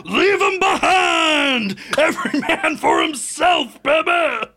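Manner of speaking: gleeful shout, laughing through it; laughing mock command. Rafter shouting at partner to abandon the sinking guy, laughing. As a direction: cackle it out, every man for himself.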